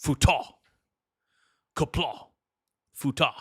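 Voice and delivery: punchy Klingon bark, word by word; Klingon pronunciation. Shown as a demonstration. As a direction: say each word like a Klingon warrior. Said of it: "I can make futa sound Klingon".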